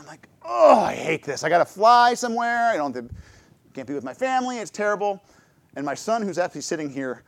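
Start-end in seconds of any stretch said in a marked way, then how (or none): 0.4-5.2 playful exaggerated complaining; mock complaint. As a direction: grumble like a sulking traveler. Retold complaint about flying again.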